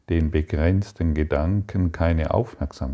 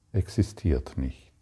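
whisper; 3 semitones lower, 6 dB quieter than usual. Real, not acted. Teacher affirms illness is unreal.

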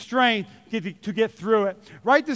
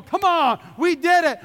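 excited; 5 semitones higher than usual. Retold or imitated. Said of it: "you're going".

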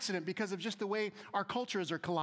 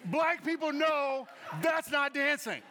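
excited shout; 4 semitones higher, 4 dB louder, slower than usual. Acted. Mock dance, calling out.

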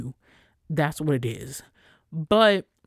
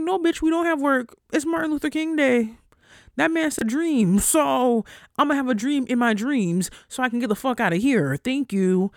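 loud, high, sassy comeback; retold clapback; 9 semitones higher, 5 dB louder than usual. Retelling her comeback to a coworker about MLK Day, loud and sassy. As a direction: tell her off loudly and with attitude. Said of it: "I'm like".

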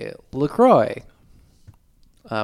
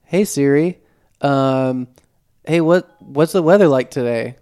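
talking to Siri; 5 dB louder than usual. Retold or imitated. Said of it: "I want it to sound like my Siri".

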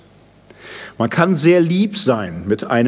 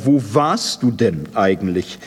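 bitter reproach. Acted. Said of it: "Es wird ihm vorgehalten".

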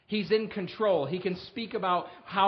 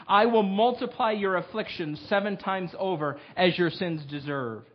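louder, solemn proclaiming of the warnings; scripture reading; 4 dB louder than usual. Acted. Pastor reading the curses to his congregation, solemn and loud. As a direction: read God's warnings with weight. Reads wild beasts passage.

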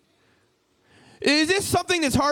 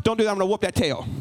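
quick, stern parental threat; stern warning; 4 semitones lower, faster than usual. Shown as a demonstration. Parent sternly warning a child, quick threatening delivery. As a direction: warn sternly, rushing straight into the threat. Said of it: "If you sternly warn them".

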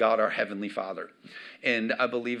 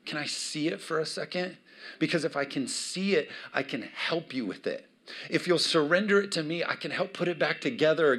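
gentle father; 3 semitones higher than usual. Retold or imitated. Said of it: "your heavenly Father is like".

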